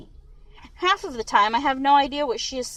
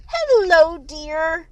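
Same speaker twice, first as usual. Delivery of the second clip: huge smile; 6 semitones higher, 7 dB louder, much slower than usual. A narrator's reading. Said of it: "she says with a huge smile".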